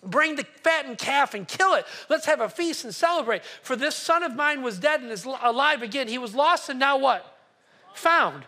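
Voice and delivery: father joyfully ordering the celebration; overwhelmed with joy. Acted. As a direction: call out the feast like a thrilled father. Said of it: "he's overwhelmed".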